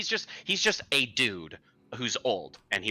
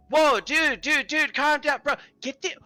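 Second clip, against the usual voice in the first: high, loud surfer-dude voice; a laid-back bro telling someone to calm down; chill bro cleric; 5 dB louder than usual. Acted.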